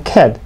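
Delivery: cat ending in a held, unreleased T; unreleased final T. Shown as a demonstration. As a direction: stop cat on a silent T. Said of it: "받침을 하시고요". (cat 끝 T를 받침으로)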